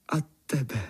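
a shy loving whisper; tender whisper. Acted. Cat whispers tenderly to the boy. Cat's tender last words.

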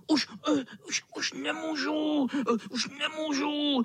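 vysoko, lapá po dechu a naříká; hrát vyčerpání; předstíraně udýchaný. Pretend. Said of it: "A potom křičel". (kocour předstírá, že už nemůže, udýchaně)

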